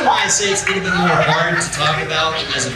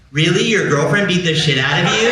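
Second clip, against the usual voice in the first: condescending. Retold or imitated. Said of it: "so condescending".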